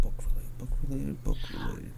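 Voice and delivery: very soft, under-the-breath repetition; muttering to oneself. Real, not acted. Co-host trying to recall a book related question, muttering. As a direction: murmur it while searching your memory.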